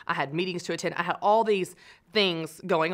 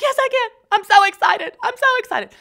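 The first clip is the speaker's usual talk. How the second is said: much higher and louder, hammed-up manic cheer; Jesse Spano manic; 10 dB louder than usual. Jesse insists she can sing, hammed-up manic squeal. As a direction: shriek the forced excitement. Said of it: "She's like".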